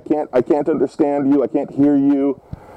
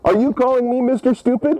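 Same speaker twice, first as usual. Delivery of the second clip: higher-pitched indignant challenge; affronted; 5 semitones higher than usual. Pretend. Old man confronts caller over an insult, affronted. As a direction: demand an answer, mock-offended.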